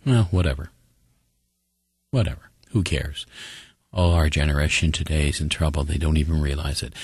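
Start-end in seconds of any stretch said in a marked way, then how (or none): 0.0-0.7 an indifferent brush-off; couldn't-care-less dismissal; apathetic. Acted. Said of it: "the reaction with apathy is to say". 2.1-3.2 indifferent, trailing shrug; acted couldn't-care-less; apathetic. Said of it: "the reaction with apathy is to say".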